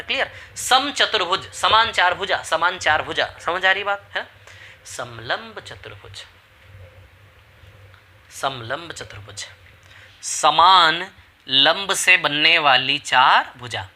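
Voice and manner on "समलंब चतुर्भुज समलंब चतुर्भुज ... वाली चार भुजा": very slow, every word laid out; deliberate slow teacher's dictation; slow drilled recital. Shown as a demonstration. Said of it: "teacher drilling the definition".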